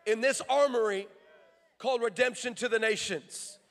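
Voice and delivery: declarative prayer from the pulpit; commissioning prayer; public prayer. Real, not acted. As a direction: pray it out over the congregation in measured phrases.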